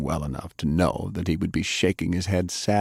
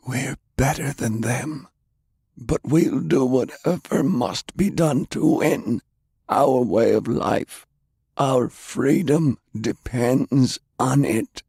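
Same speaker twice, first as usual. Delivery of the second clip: firm, slower, lightly raised voice; resolute Browning; 7 semitones higher, slower than usual. Acted. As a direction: lay down the creed slowly.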